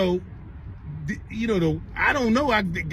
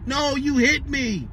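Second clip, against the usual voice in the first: higher, drawn-out imitation of a crying kid; mock crying protest; 5 semitones higher, slower than usual. Little girl arguing back at her mother, mock crying. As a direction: stretch it out like a wailing child. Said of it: "She over there crying".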